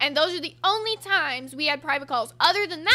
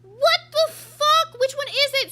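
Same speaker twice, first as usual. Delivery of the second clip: much higher and louder, dragged out slowly; exasperated outburst; 10 semitones higher, 7 dB louder, slower than usual. Real, not acted. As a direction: blow up in disbelief at the contradiction. Exasperated at friend's contradictions.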